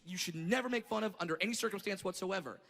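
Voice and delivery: ordinary talk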